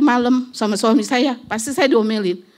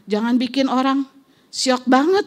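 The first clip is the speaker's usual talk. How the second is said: a retold scolding that builds higher and louder; 4 semitones higher, 4 dB louder than usual. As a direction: tell off the rider, rising to a shout. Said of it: "sampai saya maki-maki juga".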